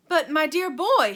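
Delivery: loud, high burst of joy; excited cry. A narrator's reading. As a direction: explode with excitement. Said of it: "he cried out".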